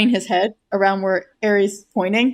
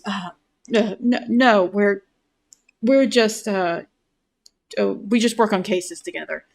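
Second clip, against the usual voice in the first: flustered denial. Acted. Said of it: "despite the fact that he is stumbling over his words".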